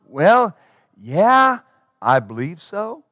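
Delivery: hesitant, trailing-off answer; a doubtful mumble fading out; unsure. Retold or imitated. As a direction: hedge as if not convinced. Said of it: "That's not the sound of being convinced".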